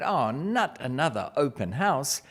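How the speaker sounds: put-on slow, drawn-out child's complaint; fed-up child. Daughter balking at yet another open house, fed up. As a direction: drag it out like a fed-up kid. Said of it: "she's sick of looking at real estate".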